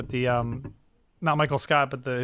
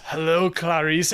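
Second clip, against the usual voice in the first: creepy Hannibal line; slower than usual. Retold or imitated. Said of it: "he goes".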